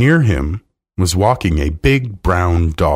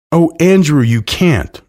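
high, loud wail, lightly acted; tearful protest; 9 semitones higher, 5 dB louder than usual. A narrator's reading. Miss Lark to her dog as he leaves, mildly tearful. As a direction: plead in dismay with a touch of crying. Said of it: "Miss Lark was crying".

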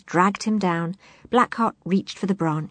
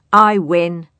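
cried out; 8 dB louder than usual. Acted. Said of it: "cried Blackheart".

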